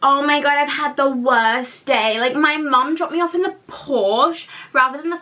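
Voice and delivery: a hint of a whiny posh girl, slowed; mock the spoiled girl's complaint; spoiled rich girl. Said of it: "those people who are like".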